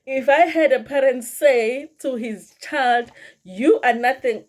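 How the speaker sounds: real amusement, voice lifted; amused. Real, not acted. Telling viewers about a harsh dad's remark, amused. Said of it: "I don't know why I'm laughing".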